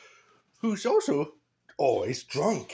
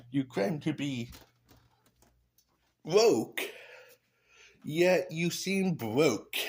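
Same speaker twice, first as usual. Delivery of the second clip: louder, higher and slow, landing the insult; loud punchline; 5 semitones higher, slower than usual. Pretend. Roasting the politician out loud, loud and slow. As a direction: belt it out like a roast line. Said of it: "Oh, sorry".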